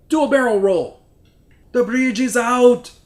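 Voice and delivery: loud, high, shouted; hammy action-movie shout; excited yelling. Pretend. Dubbed excited yells.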